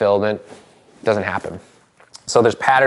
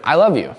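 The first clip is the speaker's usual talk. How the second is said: "I love you" with weight on "love", then falling; "love" raised, "you" settling down as a plain declaration; statement tune; 4 semitones higher, 3 dB louder than usual. Shown as a demonstration. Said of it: "Or statement".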